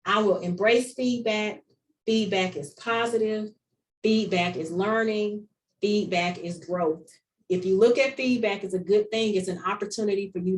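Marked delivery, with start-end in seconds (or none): 0.1-7.1 a slow, deliberate recital with each line weighted; each line stressed on its first key word, slowing toward the end; slow mantra. Shown as a demonstration. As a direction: recite it as a mantra the group will repeat. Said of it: "I want this to be you all's new mantra".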